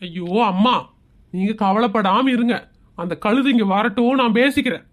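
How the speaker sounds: low-pitched, placating son; reassuring. Acted. Son reassures upset mother.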